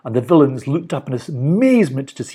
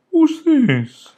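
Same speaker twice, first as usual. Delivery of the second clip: curious; 4 dB louder than usual. A narrator's reading. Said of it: "he remarked".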